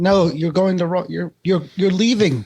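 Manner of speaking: mock yell. Rider yells at the phone as driver goes wrong way, mock yell. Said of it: "you start yelling at the phone".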